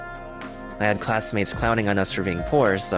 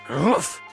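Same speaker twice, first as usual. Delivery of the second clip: short, higher-pitched "oof"; quick huff of exertion; effort grunt; 6 semitones higher than usual. Acted. Operator straining in battle, effort grunt.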